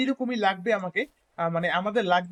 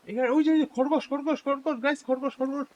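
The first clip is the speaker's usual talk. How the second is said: higher, eager calling out; excited; 6 semitones higher than usual. Real, not acted. Gamer spotting a rabbit, excitedly calling it out. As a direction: spot it and point it out eagerly.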